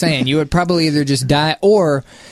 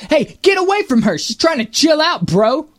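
much higher, protective call; imitation of a pop singer's voice; 10 semitones higher than usual. Retold or imitated. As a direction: tell off the photographer. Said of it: "He said".

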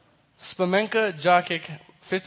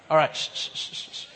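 hushed shh trailing into a whisper; sneaky shushing. Acted. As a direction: shush yourself like you're sneaking. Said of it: "doing something sneaky".

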